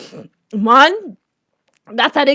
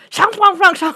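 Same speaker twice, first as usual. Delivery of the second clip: higher mock gibberish; mimicked foreign lady; 5 semitones higher than usual. Student imitating the lady nobody understood, mock gibberish. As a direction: lightly parody an incomprehensible language. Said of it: "We hear the lady go so".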